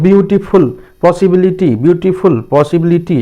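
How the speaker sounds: ब्यूटीफुल and पॉसिबिलिटी said with each syllable distinct. Shown as a demonstration. Teacher giving examples of longer words, each syllable of ब्यूटीफुल and पॉसिबिलिटी measured out. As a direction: sound out every beat of ब्यूटीफुल and पॉसिबिलिटी. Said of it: "दो से अधिक syllable में".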